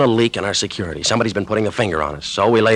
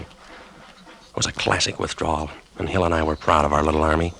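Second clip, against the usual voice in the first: measured radio narrator voice, unhurried; story narration. A narrator's reading. Lieutenant narrating his tale to the listeners, storyteller voice. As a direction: tell it like a wartime story read on air.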